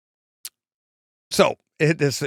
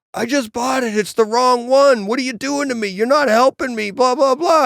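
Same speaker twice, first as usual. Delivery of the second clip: high, loud, exasperated complaining voice; a mock-upset fan whining that he was wronged; whiny Carl; 10 semitones higher, 5 dB louder than usual. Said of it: "and he goes".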